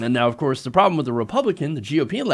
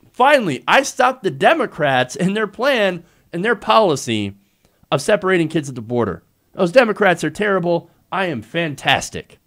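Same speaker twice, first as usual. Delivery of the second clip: mocking Trump boast; 3 semitones higher, 4 dB louder than usual. Commentator mocking Trump's boast, loud gloating. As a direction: crow it like a smug president. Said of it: "he's gonna come out and he's gonna say".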